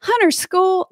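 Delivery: Hunter School in a high Southern voice; Southern accent, lifted voice. Retold or imitated. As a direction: imitate a Southern mom. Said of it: "she'd say in her accent".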